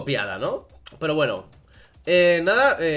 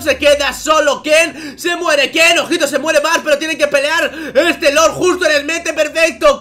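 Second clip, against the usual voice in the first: loud, high esports casting shout; hype play-by-play; 10 semitones higher, 8 dB louder than usual. Acted. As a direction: call the teamfight at full hype. Live play-by-play of a fight.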